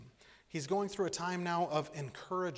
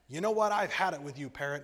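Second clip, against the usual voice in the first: fed-up shout; 7 dB louder, faster than usual. Acted. John fed up, shoves parrot away.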